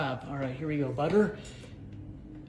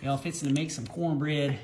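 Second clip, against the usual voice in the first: slow, teasing Southern drawl; badly faked Southern accent; imitation Southern accent. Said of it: "That is not how you do it".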